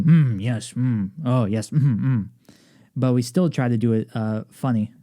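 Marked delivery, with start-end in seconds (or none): 0.0-2.3 muted ensemble reactions. Retold or imitated. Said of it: "We, we can only do".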